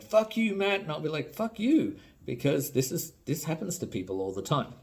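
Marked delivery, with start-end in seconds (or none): 0.0-0.8 high-pitched mock outrage; mock angry. Angry viewer hitting back at Matt, high mock anger. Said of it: "get really angry and be like". 1.3-2.0 high, squawked comeback; mock angry retort. Answering the angry viewers in kind, high mock anger. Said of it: "get really angry and be like".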